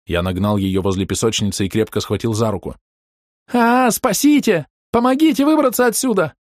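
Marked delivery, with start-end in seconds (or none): 3.5-6.3 screaming for help. A narrator's reading. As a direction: scream it into the night. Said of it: "прокричала Рёка".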